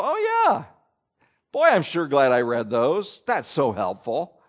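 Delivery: sarcastic aside. Pretend. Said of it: "Do you read those verses and go".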